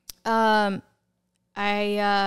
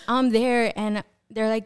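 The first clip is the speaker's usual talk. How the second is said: ordinary talk, nothing marked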